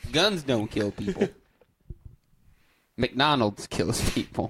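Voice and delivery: lightly voiced redneck; a hint of Fox News redneck. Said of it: "the redneck that I try to be".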